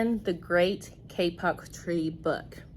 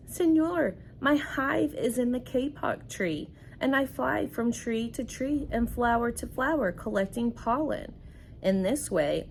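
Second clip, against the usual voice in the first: higher, lively storybook voice for the bee; higher lilting read-aloud bee; reading to children; 3 semitones higher than usual. Acted. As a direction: read the bee's words brightly to the class. Teacher reads bee's speech.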